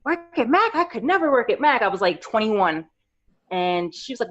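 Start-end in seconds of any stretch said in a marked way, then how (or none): 0.1-1.8 high-pitched, incredulous self-quote; retold disbelief. Young makeup fan answering the store staff, incredulous. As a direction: act out being floored by the very idea. Retells her disbelief at job suggestion.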